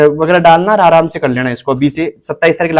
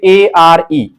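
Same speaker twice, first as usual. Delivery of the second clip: letter by letter; much slower than usual. Shown as a demonstration. Teacher showing students how to read, letter by letter. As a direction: spell it out one letter at a time. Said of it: "इसको ऐसे पढ़ना है".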